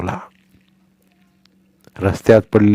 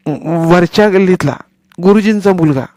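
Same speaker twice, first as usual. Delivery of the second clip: put-on higher, louder boy's voice, overdoing it; shouting too loud; 8 semitones higher, 4 dB louder than usual. Boy Sonya shouting his lie to deaf grandmother, too loud. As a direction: yell so the deaf granny hears. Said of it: "सोन्या जरा जास्तच ओरडला".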